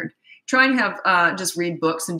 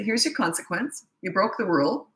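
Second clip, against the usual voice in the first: firm and matter-of-fact; 2 semitones higher than usual. Shown as a demonstration. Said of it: "You just say".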